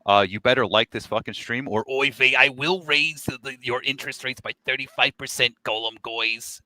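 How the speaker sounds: hammed-up Yiddish accent threat. Mock antisemitic stereotype voice.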